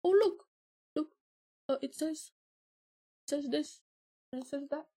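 high, sing-song mock voice of her boyfriend; ex-boyfriend showing her a phone, in a high mocking voice. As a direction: mimic him eagerly pushing the phone at her. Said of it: "he just showed me the phone. Like this".

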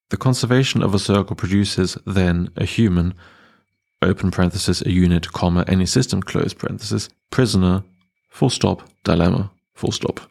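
reading out every bracket and full stop; dictating. Retold or imitated. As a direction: read it word by word like dictation. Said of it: "The paragraph reads".

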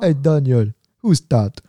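lightly imitated Jamaican guy; rough Jamaican accent, curious question; terrible Jamaican accent. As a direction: attempt a Jamaican accent, not very well. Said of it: "this is a terrible Jamaican accent".

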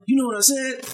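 high, loud, startled "you know what I said?"; retold shocked question. Cook realizes his boss understood the insult, shocked and loud. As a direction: snap up in disbelief at being caught. Coworker caught, shocked, asks.

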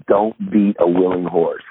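pointed retold advice. Legendary center to the assistant coach, slow pointed advice. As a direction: deliver it slowly, each word weighted.

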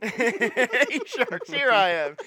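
slow, loud pitchman; pitch host. Pretend. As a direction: hype it up for the sharks. Pitching to Shark Tank.

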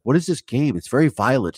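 high-pitched mock-gentle concern; imitated sweet niceness. Father fretting over his child's video game, mock sweet. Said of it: "being very nice and sweet".

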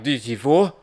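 mock French-sounding gibberish; fake French gibberish. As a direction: toss off fake French words. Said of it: "I just spoke gibberish. That wasn't real French".

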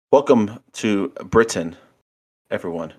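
put-on botched British accent with a bit of Christopher Walken; horrible British accent. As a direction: attempt a British accent and miss it. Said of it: "horrible British accent".

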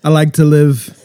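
drawling, Southern-sounding American accent; amateur American accent with a Southern twang. Shown as a demonstration. New Zealand guest tries his best, Southern-tinged American accent. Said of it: "Martin, you go. American".

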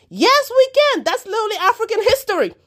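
high, loud burst of feeling with a laugh; real emotion spilling over into a laugh; emotional outburst. Real, not acted. Answering the journalists' question, a high, loud emotional burst. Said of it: "I said I wasn't gonna get emotional".

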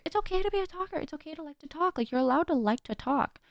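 gentle self-reassurance. Acted. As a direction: reassure yourself gently, lifting the voice. Reassuring herself, answering her old self-talk.

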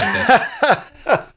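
high laughing approval. Real, not acted. Friend laughing at the self-teaching habit. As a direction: laugh it out, delighted.

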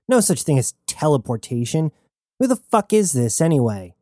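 lightly voiced scornful crew woman; Aruda scoffing. Aruda scoffing at Tane, rude.

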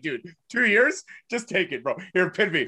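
a hint of a generous champ. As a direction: play the champ laying down, half-joking. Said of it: "I'll be like".

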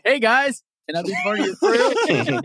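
high, bright-eyed plea to join the gang; hammed-up fanny-pack dad asking to join the crew; mock eager newcomer. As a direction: play the overeager guy asking to tag along. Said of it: "pull out your fanny pack and say".

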